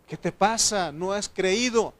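imagined father's pointed scolding; fatherly reproach. Acted. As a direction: press the question like a disappointed father. Imagined father's reproach grows insistent.

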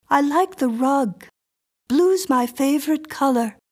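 put-on high, insistent little girl voice; a strange child demanding entry; eerie little girl. A narrator's reading. Miriam inspects the room.

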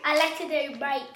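put-on playful Australian-accented teasing. Defending the accent to an annoyed co-player, in an Australian accent. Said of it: "Australian and sometimes British".

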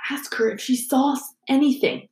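hushed whisper to a friend; mouthed whisper. A narrator's reading. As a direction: whisper it so the ghost won't hear. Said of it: "Harry mouthed at Hermione".

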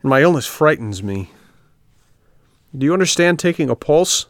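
a scared little puppet pleading; frightened puppet. A narrator's reading. Puppet to the marmot, a touch frightened. Pinocchio voiced in story.

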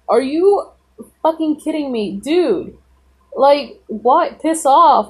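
incredulous, irritated reenactment; retold outrage. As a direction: act out being fed up with a teacher. Retold outraged reaction to the teacher.

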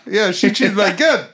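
playful, badly faked South African; attempted South African accent. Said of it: "Do South African then".

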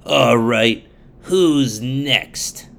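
loud scornful villain judge; Belphegor voice. Acted. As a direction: boast like a corrupt judge. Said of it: "would say things like".

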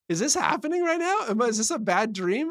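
high-pitched mock disbelief. Co-host reacting to a father's bizarre story, in disbelief. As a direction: question it as if it can't be real.

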